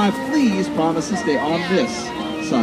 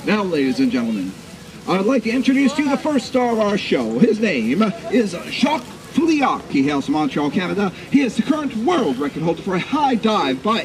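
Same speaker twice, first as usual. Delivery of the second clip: grandiose flea circus showman; 3 semitones higher than usual. Acted. Introducing the star flea.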